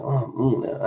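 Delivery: brief, understated food moan; yummy noises. Shown as a demonstration. Cook explaining the habit to viewers, mild yummy noises. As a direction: lightly demonstrate a little mm of enjoyment. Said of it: "I make weird yummy noises".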